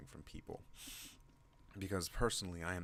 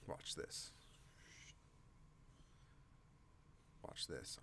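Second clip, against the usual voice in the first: whisper; 9 dB quieter, slower than usual. Real, not acted. Whispering to show something on camera.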